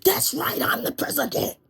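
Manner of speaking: high, smug, then whispered; smug president. Acted. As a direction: preen like the boss. President voice in comic skit.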